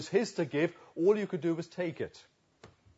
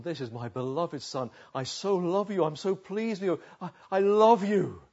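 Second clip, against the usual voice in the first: a touch of a father's fond voice, rising; tender father; 4 semitones higher, 4 dB louder than usual. Acted. God speaking to his son at the Jordan, tender. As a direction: say it like a proud, loving father.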